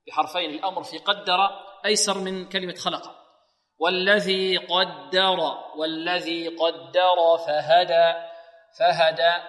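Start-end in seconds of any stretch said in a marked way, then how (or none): 3.8-9.4 slow recitation, heavy "قدر" then thin "فهدى"; light letters. Shown as a demonstration. Teacher models the verse, slow, all of "فهدى" light. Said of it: "هدى كلها ماذا؟ مرققة".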